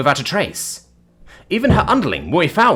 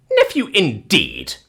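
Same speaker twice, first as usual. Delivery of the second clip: slow, drawn-out scornful disbelief; slow haughty dismissal; disdainful harumph; slower than usual. Acted. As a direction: harumph it like an affronted matron. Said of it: "She gave a harumph".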